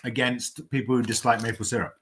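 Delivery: talking while eating; mouth full. Real, not acted. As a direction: speak around a mouthful of food. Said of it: "What are you eating?".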